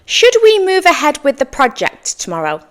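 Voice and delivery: formal workplace question, high start then falling. Shown as a demonstration. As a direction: ask it formally, as if at work. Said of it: "ask this in a more formal tone".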